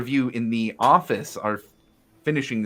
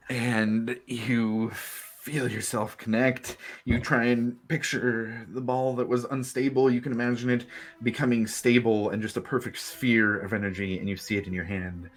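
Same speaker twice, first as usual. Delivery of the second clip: guided visualization; 3 semitones higher than usual. A narrator's reading.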